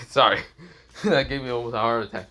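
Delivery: laughing it off after a scare; shaky laugh through the words; nervous laughter. Real, not acted. Laughing after a real fright.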